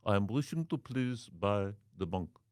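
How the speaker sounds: stilted, formal mock Arab accent; a foreign caller insisting politely; mock Arab accent, stiff phrasing; put-on Arab accent. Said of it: "Me as Arab".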